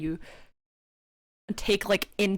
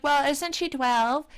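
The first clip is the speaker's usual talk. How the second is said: imagined objector; 6 semitones higher than usual. Retold or imitated. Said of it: "You might be like".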